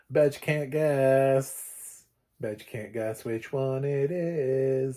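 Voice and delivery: slow, drawn-out singsong tease; playful slow taunt to the viewers; teasing. Pretend. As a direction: stretch it out to tease the listener. Teasing the viewers about favourite.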